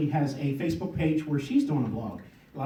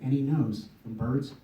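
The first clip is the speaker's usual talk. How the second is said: measured spoken poem with pauses; poem recitation. Acted. Poet to audience about watching birds, recited poem. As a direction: open lines firmly, let endings fall.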